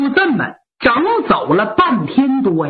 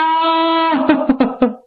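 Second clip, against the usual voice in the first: wailing cry; 4 semitones higher than usual. Acted. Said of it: "哭得特别痛".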